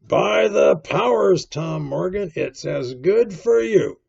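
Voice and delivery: big blustering landlord voice; exclaiming. A narrator's reading. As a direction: burst out with emphatic force. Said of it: "exclaimed the landlord".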